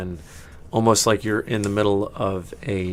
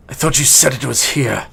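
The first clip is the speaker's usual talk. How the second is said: doubtful elf; 5 semitones higher, 6 dB louder than usual. Acted. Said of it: "he goes".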